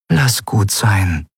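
slow, soothing mother; calm him down slowly and gently; gentle. A narrator's reading. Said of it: "sagte ihre Mutter sanft". (sanft und langsam beschwichtigend)

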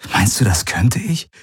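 mildly wounded question, swinging upward; hurt, almost offended. Acted. Man asking his partner if he could forget, hurt. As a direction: ask it with a touch of offence. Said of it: "verletzt, fast beleidigt".

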